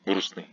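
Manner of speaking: грустный with no т, straight from с to н; dropped T. Shown as a demonstration. Teacher repeating the word for learners, т dropped in грустный. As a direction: say грустный as "grusny". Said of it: "without T".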